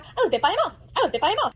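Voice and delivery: put-on high singsong little-kid announcement; boasting child. Daughter walking around the E R, boasting. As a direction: parade it like a proud kid.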